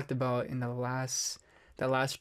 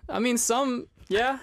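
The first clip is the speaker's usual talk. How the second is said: anime voice; 9 semitones higher, slower than usual. Acted. Keeps anime voice going.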